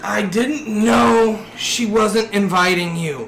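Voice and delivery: slow teasing through laughter; laughing. Acted. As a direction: tease slowly, laughing. Mock teasing the lawyer character.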